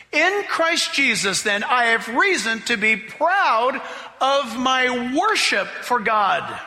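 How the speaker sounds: slow, deliberate reading with weight on worship; rereading slowly. Shown as a demonstration. Preacher rereading the verse to his church with the new word. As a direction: let the word worship land. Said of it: "I'm gonna read it different".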